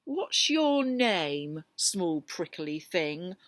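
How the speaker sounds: slow, mildly mocking rhino; lightly voiced big bully asking; slow sneer at a small creature; unkind rhinoceros. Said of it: "asked the rhinoceros unkindly".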